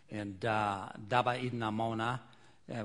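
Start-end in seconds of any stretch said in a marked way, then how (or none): 1.1-2.2 spoken in a local language; Papua New Guinea greeting. Shown as a demonstration. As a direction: say "Daba Idna Mona" as a native greeting. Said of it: "which, uh, means good morning".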